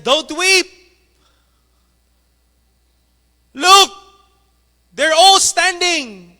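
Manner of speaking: very high, loud crowd calling out. Acted. Audience calling to the crying violinist, high and loud. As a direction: shout up to the weeping violinist.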